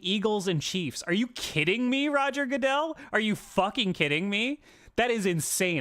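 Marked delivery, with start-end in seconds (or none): 1.1-5.8 heated, incredulous rant at the league; fed-up fan ranting; angry rant. Real, not acted. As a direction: vent at Roger Goodell. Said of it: "I'm gonna get demonetized for this rant".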